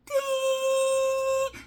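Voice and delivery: high, long sung "Ding!" like a tea whistle; imitated whistle. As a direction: mimic the kettle whistle, high and held. Tea whistle wakes them.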